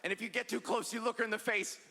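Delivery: spooky legend-telling voice for straight dudes; campfire horror storyteller. Retold or imitated. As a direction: tell it like a ghost story by the fire. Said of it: "be like".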